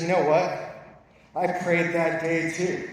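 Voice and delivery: a hint of a wife setting him straight; wife's firm reply. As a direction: let the wife land it deliberately. Wife's quiet comeback in story.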